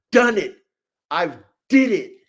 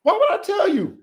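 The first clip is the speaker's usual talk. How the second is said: rhetorical shout; 11 semitones higher than usual. Real, not acted. Breeder shouting at his viewers why he'd share secrets. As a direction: shout the question at the chat like it's absurd.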